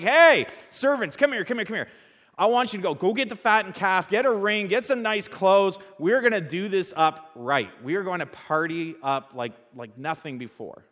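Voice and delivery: a joyful father throwing a party, loud; excited father calling servants. Acted. Father calling his servants, big and joyful.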